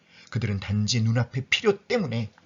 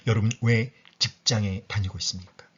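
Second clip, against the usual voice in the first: ordinary talk, nothing marked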